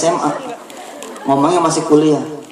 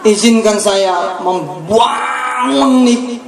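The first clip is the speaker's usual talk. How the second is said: mock earnest prayer; 3 semitones higher, much slower than usual. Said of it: "gregetan saya gitu loh".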